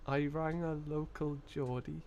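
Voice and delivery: slow Geordie attempt that lands in Liverpool; botched Geordie, sounding Liverpool. Streamer hunting for the accent, Geordie slipping into Liverpool. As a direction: try Geordie slowly but drift into Scouse. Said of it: "That's Liverpool. Hang on".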